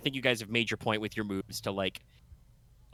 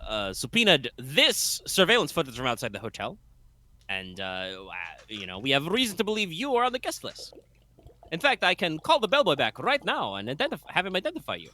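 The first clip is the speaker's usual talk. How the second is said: lightly voiced lawyer, raised pitch; prosecutor Roth; 4 semitones higher than usual. GM as prosecutor cornering the defendant, lightly voiced. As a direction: press the witness with the evidence. GM voicing Roth presenting evidence.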